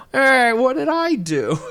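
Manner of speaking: loud, very high cartoon protest; mock indignant yell. Hit on the head, he protests, mock indignant yell. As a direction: yelp it like a wronged cartoon character.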